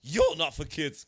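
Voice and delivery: loud comeback through a laugh; laughing retort. Retold or imitated. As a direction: fire it back, cracking up.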